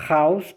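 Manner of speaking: "Haus" started as "raus" with a throaty rasp; guttural R. Shown as a demonstration. Teacher giving the word for out, guttural R. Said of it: "ele é gutural".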